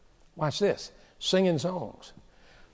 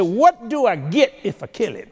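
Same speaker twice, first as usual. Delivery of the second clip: put-on eager teenager; 4 semitones higher, 4 dB louder than usual. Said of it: "He said".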